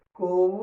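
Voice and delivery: "Corrida." split as cor, ri, da with long pauses; syllable by syllable. Shown as a demonstration. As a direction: divide "Corrida." into three separate syllables. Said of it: "Um R fica numa sílaba e o outro R vai pra outra sílaba". ("Corrida." separado: cor, ri, da)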